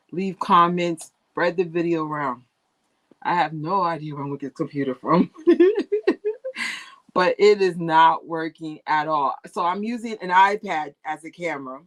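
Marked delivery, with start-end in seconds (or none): 5.4-6.8 burst of laughter. Real, not acted. Laughing at own predicament.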